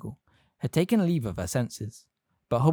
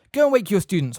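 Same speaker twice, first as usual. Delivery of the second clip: stern order; 8 semitones higher, 6 dB louder than usual. A narrator's reading. McGonagall orders sharply.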